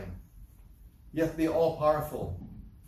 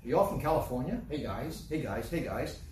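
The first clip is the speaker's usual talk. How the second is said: mock server greeting; 2 semitones lower than usual. Preacher mocking restaurant staff: lightly voiced breezy greeter. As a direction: imitate the servers' chirpy patter. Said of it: "everything is".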